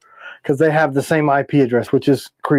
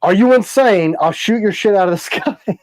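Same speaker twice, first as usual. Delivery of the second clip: half-hearted mock yell, higher pitched; retold yell; 5 semitones higher than usual. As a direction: replay your outburst at the neighbors, breaking into a laugh. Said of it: "I went outside and loudly said".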